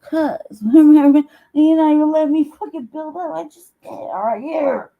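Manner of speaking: high, loud, laughing whine as a friend; mock whiny friend. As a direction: imitate a friend begging, laughing through it. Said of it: "every time I'm like".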